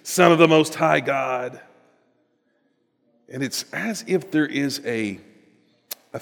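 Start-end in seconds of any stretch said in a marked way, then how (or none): 0.0-1.6 lightly voiced demon confronting Jesus. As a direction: challenge Jesus as a cornered demon. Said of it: "I wish I had a good demon voice".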